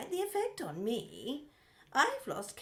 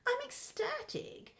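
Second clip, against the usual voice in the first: whispering; 11 semitones higher, 3 dB quieter than usual. Acted. Sarcastic reply to pleased.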